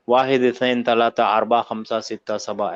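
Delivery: "वाहिद, इत्नैन, तलाता" without case endings, in a low even run; model counting. Shown as a demonstration. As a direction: count from "वाहिद" to "सबा" in reading form, no -un endings. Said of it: "ऐसे".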